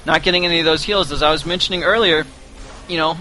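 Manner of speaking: talking through hiccups; hiccuping between words. Real, not acted. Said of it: "Sorry for the hiccups".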